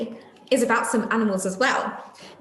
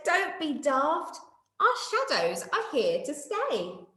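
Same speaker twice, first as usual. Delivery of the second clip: slow, lightly higher retort; mock laughing; 5 semitones higher, slower than usual. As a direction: kindly tease. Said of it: "Day Monkey laughed and said".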